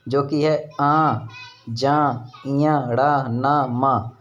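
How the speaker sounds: क्रमशः: आ, जा, इया, ड़ा, ना, मा धीरे धीरे; nasal sounds demo. Shown as a demonstration. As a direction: demonstrate each sound slowly. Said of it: "नासिक के वर्ड हैं जो नाक से बोले जाते हैं". (नासिक्य ध्वनियों का धीमा उच्चारण)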